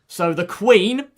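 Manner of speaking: slow, drawn-out instruction; said slowly. Shown as a demonstration. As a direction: spell it out slowly for a confused teammate. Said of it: "I'll say this slowly".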